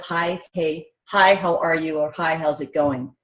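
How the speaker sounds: low, quiet, dutiful hi; flat small talk. Shown as a demonstration. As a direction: say it like a bored routine. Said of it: "That's kinda awkward".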